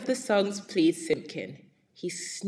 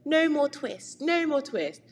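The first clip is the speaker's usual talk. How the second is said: high, louder little mouse voices; twittering mice; 8 semitones higher, 3 dB louder than usual. A narrator's reading. Mice shouting at the cat from inside. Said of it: "little twittering voices".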